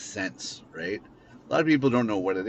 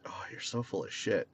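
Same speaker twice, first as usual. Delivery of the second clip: muttered scoff; 8 dB quieter than usual. Retold or imitated. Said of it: "you're sitting there going".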